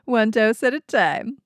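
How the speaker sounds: slick TV drug commercial announcer; pharmaceutical ad voice. Pretend. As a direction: sell it like a pharma ad. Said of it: "I'm gonna do my pharmaceutical ad voice".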